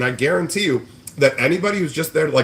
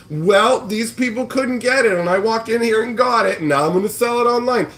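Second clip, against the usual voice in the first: mock scalper voice; 8 semitones higher than usual. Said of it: "You're just going".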